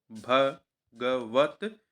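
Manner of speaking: भगवत stretched very slowly, syllable by syllable; drawn-out demo. Shown as a demonstration. Teacher slowly spells out भगवत for students, very drawn out. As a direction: draw out भगवत to show the final त. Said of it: "हलंत होता है भगवत प्रेम में".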